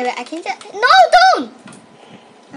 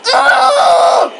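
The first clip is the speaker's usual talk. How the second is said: surprised shout; 9 semitones higher, 11 dB louder than usual. Real, not acted. Startled exclamation.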